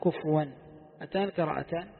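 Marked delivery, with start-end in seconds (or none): 0.0-0.5 كفوا with a vowelled fa, then waw; waw reading. Shown as a demonstration. Teacher sums up the second reading, كفوا with damma and waw. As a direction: say كفوا as kufuwan, hamza turned to w. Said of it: "مع قلب الهمزة واوا".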